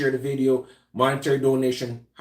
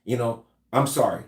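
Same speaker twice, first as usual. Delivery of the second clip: non-threatening apology. Shown as a demonstration. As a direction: back down gently, hands up. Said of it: "you're not any less of a man".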